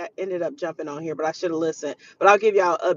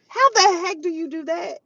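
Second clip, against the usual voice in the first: high, louder disbelieving question; raised-pitch outrage at the unthinkable; incredulous outburst; 9 semitones higher, 4 dB louder than usual. Real, not acted. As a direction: burst out in appalled disbelief. Outraged reaction to the crime story.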